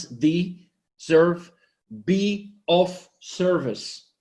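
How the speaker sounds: slow, stretched "be of service"; deserve split into de serve. Shown as a demonstration. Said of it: "two parts".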